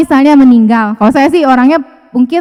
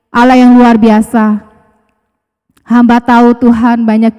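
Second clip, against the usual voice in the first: firm, slightly louder prayer voice; a pastor leading the church in closing prayer; 3 dB louder than usual. Acted. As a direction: pray over the congregation with conviction.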